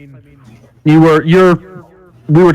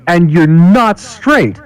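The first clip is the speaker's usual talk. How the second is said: put-on heavy Russian accent, higher pitched; 5 semitones higher than usual. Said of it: "I literally learned to do a Russian accent for that joke".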